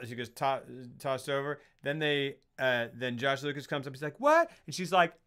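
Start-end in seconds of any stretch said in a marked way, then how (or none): 4.2-4.5 high, loud startled what; hammed-up disbelief; mock shock. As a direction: yelp it as a parody of shock. Acting out character's shocked reaction.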